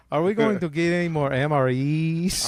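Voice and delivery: lightly hammed Hispanic-accented soldier; joking immigrant GI voice; American soldier impression. Soldier questioning his sergeant, mock Hispanic accent. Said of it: "I'm doing an American soldier right now".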